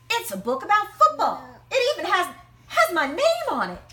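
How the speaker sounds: high and loud, bursting with joy; thrilled boy. Acted. Matt pulling his book from the hat, high and thrilled. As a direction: shout it with delight.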